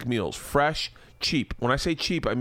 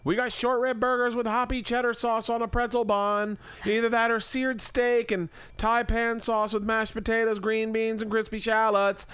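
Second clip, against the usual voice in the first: much higher, sing-song wife voice; wife Leanne voice; 10 semitones higher than usual. Acted. Husband voices wife Leanne pitching Blue Apron, high sing-song. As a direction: play the chirpy wife selling the meal kit. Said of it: "Do you like this character thing I'm doing?".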